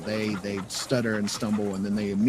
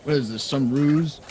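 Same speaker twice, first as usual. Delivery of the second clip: suspicious mayor; 5 semitones higher, 5 dB louder than usual. Acted. Mayor suspects a trick.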